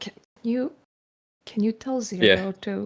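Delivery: quiet whispered aside. Whispering in character to Connor, asking him to pass on a message: whispering in character. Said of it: "I'm just gonna whisper to Connor".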